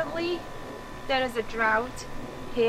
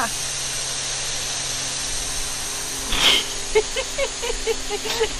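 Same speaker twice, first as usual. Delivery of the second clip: airy unvoiced laugh; breathless laughter; 8 semitones higher than usual. Real, not acted. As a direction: giggle through the cold. Laughing while soaked.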